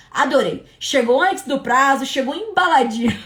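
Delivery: lightly voiced delighted customer; mock an enthusiastic product testimonial; imitated online reviewer. Preacher imitating shoppers praising parcels, light mock enthusiasm. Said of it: "o testemunho lá do negócio".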